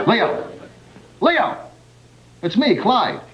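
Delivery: coaxing the lion, calling its name; lightly voiced lion tamer. Lion tamer Clyde coaxing Leo in the cage, lightly voiced. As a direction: call to the big cat with mock courage. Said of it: "I play the part of Clyde".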